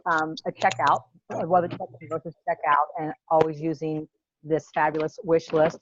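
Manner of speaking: muffled, as if through a wall. Real, not acted. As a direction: talk like you're behind a wall. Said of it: "No, she sounds, like, muffled".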